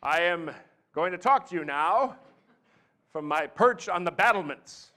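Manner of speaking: mock podium oratory. Imitating speaker gripping the podium.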